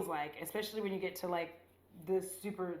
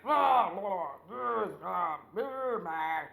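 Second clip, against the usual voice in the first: mock fight sounds; 4 dB louder, much slower than usual. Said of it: "that's the fight sounds".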